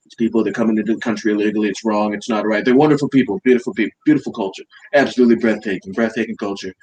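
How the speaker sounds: lightly voiced Trump, boastful and repetitive; Trump impression. Mocking Trump for a friend, lightly voiced boastful Trump. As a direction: praise everyone like a salesman president. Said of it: "That's a great impression".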